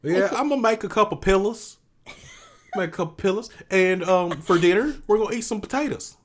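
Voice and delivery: chatty mock-Southern family phone call; Southern phone twang. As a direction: tease with a countrified Southern accent. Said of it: "when I get on the phone with my family".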